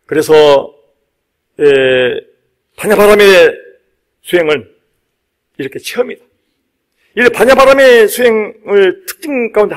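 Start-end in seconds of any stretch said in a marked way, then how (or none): none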